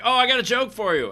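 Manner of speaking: high-pitched mock enthusiasm; imitating an eager driver. Shuttle driver offers comedian a joke, imitated eagerness. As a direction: jump in eagerly, pitched well up.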